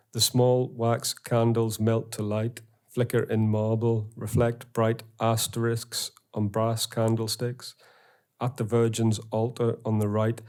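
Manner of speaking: slow, measured reading of the verse; poem reading. Acted. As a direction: let each image land, slowly. Reads poem quote in lecture.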